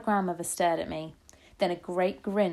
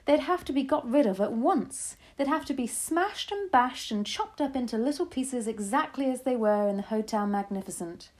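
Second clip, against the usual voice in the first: higher, punchy grandmother voice; fierce storybook grandmother, emphatic; 6 semitones higher, 3 dB louder than usual. A narrator's reading. Grandmother declaring mouse witches must go, fiercely. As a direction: relish every violent verb.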